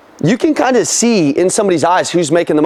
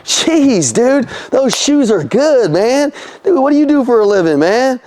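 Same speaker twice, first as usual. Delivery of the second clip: higher, buddy-buddy gushing at a customer; hyped compliments; 5 semitones higher, slower than usual. Retold or imitated. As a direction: rave about his shoes like he's family. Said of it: "I'm like".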